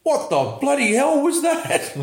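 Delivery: high, hammed-up Australian yelp of surprise; exaggerated Australian accent; broad Aussie accent. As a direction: play the startled Aussie bloke in the car. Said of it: "in the greatest Aussie accent".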